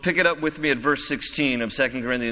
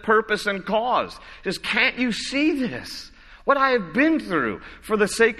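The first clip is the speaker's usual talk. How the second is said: pleading appeal; 5 semitones higher than usual. Acted. Pleading appeal on Paul's behalf.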